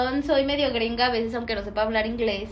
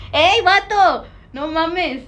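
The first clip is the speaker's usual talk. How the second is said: mock alarmed shout; 5 semitones higher, 7 dB louder, much slower than usual.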